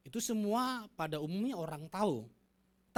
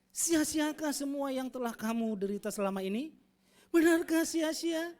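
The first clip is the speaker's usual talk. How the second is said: angry rebuke; 6 semitones higher, 4 dB louder than usual. Shown as a demonstration. Preacher showing the angry reading of Paul's letter, building to outrage. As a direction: demand it in disbelief, building louder. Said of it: "intonasi yang marah, benar-benar marah ya".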